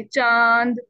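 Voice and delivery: चांद with the नून hidden in a nasal glide; hidden nasal chand. Shown as a demonstration. Teacher modelling the hidden नून for students. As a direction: say चांद with the n tucked away. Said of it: "इसमें आप छुपा रहे हो उसको".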